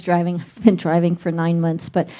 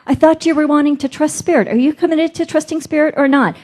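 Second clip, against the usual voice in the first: voice of Spirit; 4 semitones higher than usual. Retold or imitated. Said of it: "I'm hearing these voices in my head".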